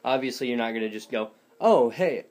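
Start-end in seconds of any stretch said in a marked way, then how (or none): 1.6-2.2 loud, abrupt, unconvincing Herbert; a lightly put-on Herbert that misses; failed Herbert attempt. Shown as a demonstration. Showing viewers what won't work, failed Herbert impression. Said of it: "No, that doesn't work that way".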